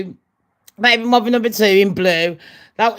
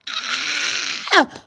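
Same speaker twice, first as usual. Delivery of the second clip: mock scream; 7 semitones higher, 6 dB quieter than usual. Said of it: "I'd be able to open the garage doors with my voice".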